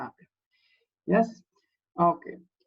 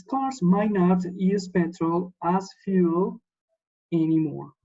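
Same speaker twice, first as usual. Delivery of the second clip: slow reading. Shown as a demonstration. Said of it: "Look at this".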